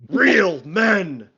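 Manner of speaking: mock-earnest symbiote chanting affirmations; symbiote reciting affirmations. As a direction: intone each affirmation like a proud mantra. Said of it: "He's just like".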